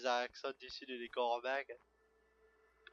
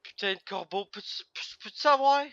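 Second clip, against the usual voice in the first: frustrated shout; 5 semitones higher, 10 dB louder than usual. Real, not acted. Cursing the crow.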